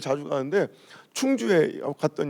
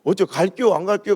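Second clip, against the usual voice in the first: Chungcheong hedging. Retold or imitated. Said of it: "부정적인 얘기를 잘 안 하고".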